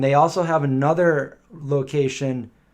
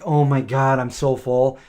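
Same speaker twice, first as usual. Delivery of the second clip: overstuffed groan; 5 dB louder than usual. Retold or imitated. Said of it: "and I'm like".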